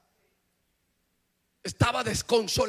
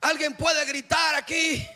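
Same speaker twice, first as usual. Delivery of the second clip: louder, pushing the crowd on "gritar"; asked again with more force on "gritar"; louder call; 4 semitones higher than usual. Shown as a demonstration. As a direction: call out to the congregation to shout. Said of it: "No, no han gritado".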